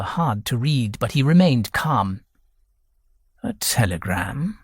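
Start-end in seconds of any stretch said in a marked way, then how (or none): 3.4-4.6 "telegram" leaned on with a questioning rise; low-pitched query, weight and lift on "telegram"; emphasis on telegram. A narrator's reading. Old man feigns ignorance, stressing "telegram". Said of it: "The emphasis on the word telegram".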